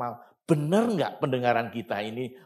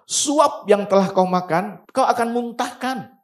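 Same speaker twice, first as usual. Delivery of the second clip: scripture reading; 7 semitones higher, 6 dB louder than usual. Acted. Pastor reads verse eight aloud.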